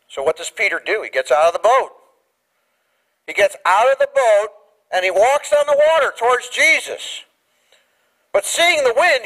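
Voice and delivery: ordinary delivery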